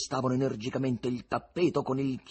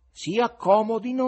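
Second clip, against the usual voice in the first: higher, louder call to the crowd; shouting invitation; 10 semitones higher, 8 dB louder than usual. Acted. Fagotto shouting to the audience to come up. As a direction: shout them up onto the stage. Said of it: "urlava Fagotto".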